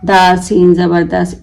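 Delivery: letter by letter, slowed, naming each mark; slow demo of the wrong way to read; spelled-out reading. Shown as a demonstration. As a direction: spell it out laboriously like a beginner. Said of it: "इस तरीके से मत पढ़े".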